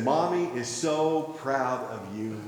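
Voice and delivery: soft, slow tender praise; a mother gently praising her boy; tender mom. Retold or imitated. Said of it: "she said".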